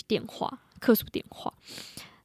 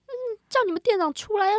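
rude customer; 11 semitones higher, faster than usual. Retold or imitated. Retold rude customer demand.

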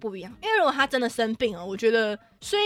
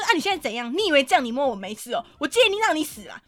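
angry yelling; 3 semitones higher, 4 dB louder than usual. Retold or imitated. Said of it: "然后我就开始对他乱叫".

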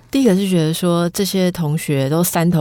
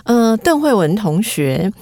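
imitating judge; 3 semitones higher than usual. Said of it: "评审老师就说".

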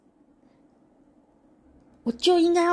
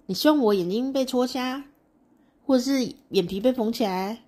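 louder, higher incredulous protest; indignant questioning; 3 semitones higher, 4 dB louder than usual. Acted. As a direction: press her with disbelieving questions.

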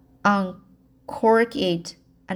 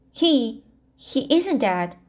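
gasped; 3 semitones higher than usual. Acted. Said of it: "gasped the aunt".

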